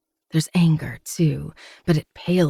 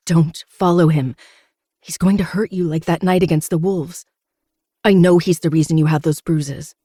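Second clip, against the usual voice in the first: louder, desperate warning; urgent plea; 3 semitones higher, 5 dB louder than usual. Acted. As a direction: beg him not to go. Pleading him not to go.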